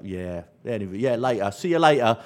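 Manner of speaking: schoolyard South East London voice; lightly put-on South East London slang; South East London accent. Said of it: "And the same for me in South East London".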